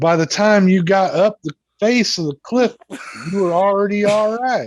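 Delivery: slow drawling twang. Retelling what Jared said after the fall: imitating Jared's slow twang. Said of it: "he's got that little slow twang".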